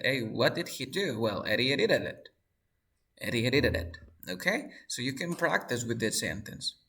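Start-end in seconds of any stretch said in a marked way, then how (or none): 1.5-4.0 "Eddie edited it" with R-like taps between vowels; sounds like R. Shown as a demonstration. Teacher answering what did he do, "edited it" with taps. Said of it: "suena como R".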